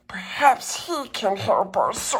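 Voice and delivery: hushed hopeful whisper. A narrator's reading. Clown whispers hopeful idea to the toys. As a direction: breathe it like a secret.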